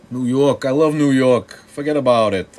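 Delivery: loud, high New York accent, bragging. Shown as a demonstration. To his stream chat, showing off a loud New York accent. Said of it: "it's been a long time since I did different accents".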